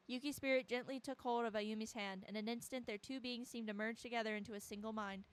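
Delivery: measured storyteller's reading; story narration. A narrator's reading. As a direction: narrate the scene evenly. Reads game narration aloud.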